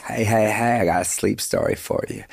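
a hint of a drawling bedtime narrator; Matthew McConaughey. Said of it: "every night I listen".

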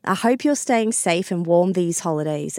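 stuffy nose from a cold; nasal voice. Real, not acted. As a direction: talk through a blocked nose. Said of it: "sorry about the nasal voice".

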